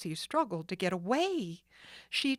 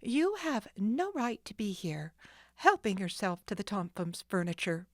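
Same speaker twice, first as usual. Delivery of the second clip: retort. Acted. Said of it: "she retorted".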